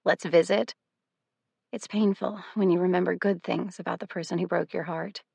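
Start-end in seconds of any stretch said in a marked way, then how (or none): 0.0-0.7 put-on wistful echo of an old phrase of his; a fond, lightly voiced imitation of him; recalling his phrase. Remembering her ex's old saying, wistful imitation. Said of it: "he used to say things like that".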